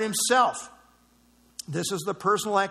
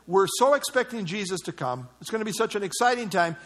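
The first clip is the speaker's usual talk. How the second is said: lightly acted anxious wondering, rising higher toward the question; imagined worried believers; 4 semitones higher than usual. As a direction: voice their concern, pitch climbing as it builds. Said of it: "in their minds they were thinking".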